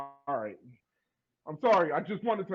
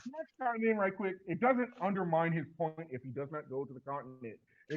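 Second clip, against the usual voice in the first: faint, muffled line; sounding far from the mic; barely audible; 4 dB quieter than usual. Real, not acted. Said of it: "I can barely hear you".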